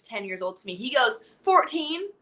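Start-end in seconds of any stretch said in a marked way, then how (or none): 1.4-2.1 imitating a boy's deadpan brag, slightly raised pitch; cocky kid, totally serious; straight-faced. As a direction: answer with a straight face, pitched up. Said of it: "Like, just straight face".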